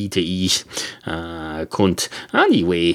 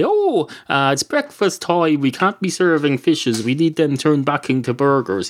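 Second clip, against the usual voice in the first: higher-pitched mock fussy objector; mock objection; 5 semitones higher than usual. Cat imagines the woman objecting to fishes, mock protest. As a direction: object in a raised, put-on pitch.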